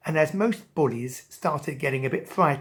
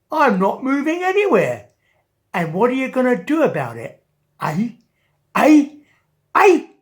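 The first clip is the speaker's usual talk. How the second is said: loud, rising taunts, each Eh higher; taunting shark; 7 semitones higher, 9 dB louder than usual. Acted. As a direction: jeer at the king, fast and pushy.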